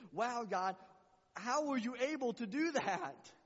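high, slow cry of wonder at God; awed prayer. Acted. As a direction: marvel aloud to God. Voicing awestruck prayer to God.

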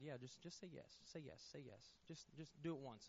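hushed urging from within; inner voice. Retold or imitated. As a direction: coax yourself quietly, as a nagging thought. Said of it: "something inside me said".

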